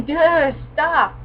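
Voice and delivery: loud whiny stop; hammed-up yell at the anime; mock yelling. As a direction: yell at the screen to make it stop. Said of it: "Cue me yelling".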